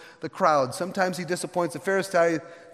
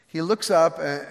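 ordinary talk

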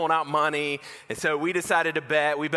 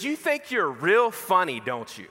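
slow, higher-pitched needling, dropping on the tag; frustrated sister's boyfriend; 4 semitones higher than usual. Retold or imitated. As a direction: act out a fed-up loser confronting a cocky kid. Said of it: "he's getting real frustrated".

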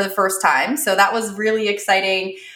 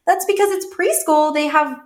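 high cheerful mom; 5 semitones higher than usual. Retold or imitated. Mom explaining preschool to son.

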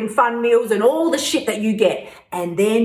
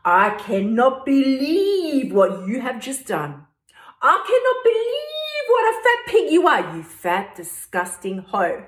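cruel inner critic; 3 semitones higher than usual. Retold or imitated. Berating herself over the burger, mock cruel inner critic. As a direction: spit the insults like a nasty inner critic. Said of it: "the same damn voice that is all up in your grill".

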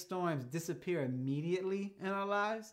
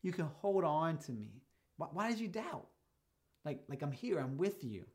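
gentle reminder; 4 dB quieter than usual. Pretend. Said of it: "he's trying to remind him".

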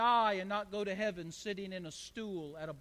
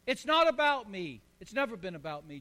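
louder, rising to a preaching cry; preached John quote; 6 dB louder than usual. Retold or imitated. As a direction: proclaim it as John.

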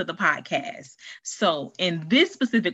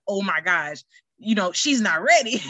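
mock panic. Aunt freaking out, laughing.

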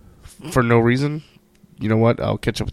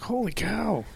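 much higher, a touch softer, amazed dad; 9 semitones higher, 5 dB quieter than usual. Retold or imitated. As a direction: gasp it out, amazed your kid can read. Dad amazed at son reading.

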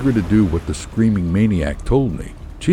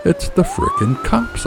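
high, drawn-out yell of alarm. A narrator's reading. Husband spotting the police boat, high alarmed yell. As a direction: yell it out high, stretching the words. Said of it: "I yelled".

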